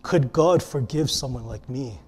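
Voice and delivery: low, hushed, vulnerable question; honest, serious. Retold or imitated. Caller asking a radio host about forgiveness, honest and hushed. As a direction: ask it softly, as the ashamed caller. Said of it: "you can hear the honesty in the person's voice".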